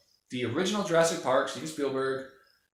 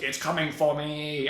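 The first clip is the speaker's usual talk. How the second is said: mock panic; 3 semitones higher than usual. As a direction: play a terrified victim for laughs. Hams up giant wave attack.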